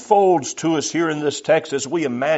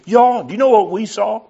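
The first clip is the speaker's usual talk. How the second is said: higher and louder, bursting to tell; imagined excited outburst; 7 semitones higher, 6 dB louder than usual. Retold or imitated. Preacher imagining the apostles bursting to tell, excited cry. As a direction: blurt it out like you can't hold the secret. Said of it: "wanted to scream out".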